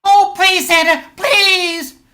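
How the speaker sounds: pleading cry. Acted. Kid begs Santa for gift.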